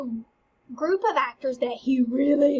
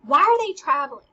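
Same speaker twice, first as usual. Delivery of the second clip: mildly puzzled question, pitched up on the start; confused; 7 dB louder than usual. Acted. Teacher voicing Hamlet's question about the actors, confused. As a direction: ask it as if baffled. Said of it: "Hamlet is confused".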